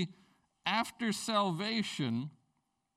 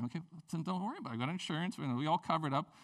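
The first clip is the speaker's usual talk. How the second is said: reassuring; 4 dB quieter, faster than usual. Retold or imitated. Reassuring wife on phone.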